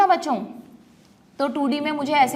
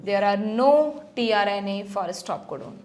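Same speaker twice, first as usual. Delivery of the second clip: slow dictation; 5 semitones lower, much slower than usual. Shown as a demonstration. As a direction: read the line out slowly to mark. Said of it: "इसको भी highlight कर दो".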